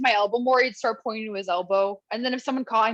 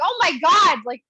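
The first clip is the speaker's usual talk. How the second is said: 1 mock panic; 5 semitones higher than usual. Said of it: "I was like".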